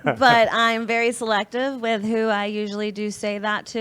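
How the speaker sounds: laughing through the words. Real, not acted. Guest explaining she rarely says love, laughing. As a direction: giggle while explaining.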